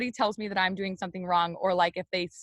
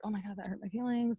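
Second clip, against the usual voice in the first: retold hurt withdrawal; 9 dB quieter than usual. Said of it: "completely shut down".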